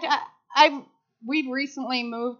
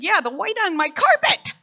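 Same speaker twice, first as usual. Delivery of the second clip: sarcastic; 6 semitones higher, 6 dB louder than usual. Retold or imitated. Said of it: "I said".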